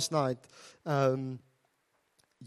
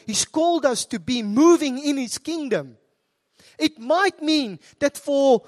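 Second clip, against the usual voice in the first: forceful, raised preaching voice; 2 semitones higher, 3 dB louder than usual. Real, not acted. Preacher urging congregation not to settle here, impassioned preaching. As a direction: challenge the congregation emphatically.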